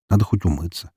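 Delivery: ordinary delivery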